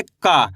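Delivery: का as a long, falling syllable; letter-sound demo. Shown as a demonstration. Teacher shows how to read the first letter, letter-sound demo. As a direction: draw out का and let it drop low. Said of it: "इसको कैसे पढ़ेंगे?".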